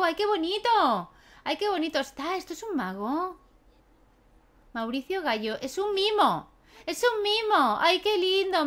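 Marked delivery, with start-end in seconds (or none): 0.0-2.4 delighted gush. Real, not acted. Player cooing at a mime in the game, delighted. 5.6-8.6 excited squeal. Real, not acted. Player thrilled to spot a mime, squealing.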